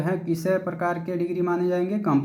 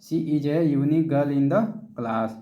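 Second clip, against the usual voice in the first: slow, careful reading of an English example; slow example sentence; much slower than usual. Shown as a demonstration. Teacher reading an English example to the class, very slowly. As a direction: lay each word out so students can copy it down. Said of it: "जैसे कह रहा है".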